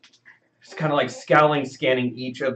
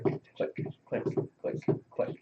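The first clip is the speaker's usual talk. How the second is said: soft breathy clicking like shoes on stone; whispered footstep clicks; 8 dB quieter than usual. Shown as a demonstration. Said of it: "It's sort of like".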